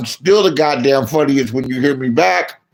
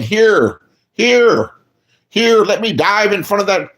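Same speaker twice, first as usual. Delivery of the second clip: mocking simp; 5 semitones higher, slower than usual. Mocking simps offering themselves.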